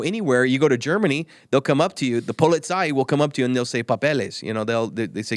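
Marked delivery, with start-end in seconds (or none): 3.8-4.4 lightly imitated foreign accent on PAPELES; mock foreign accent. Speaker imitating police asking for papers, rough foreign accent. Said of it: "that was a different kind of accent".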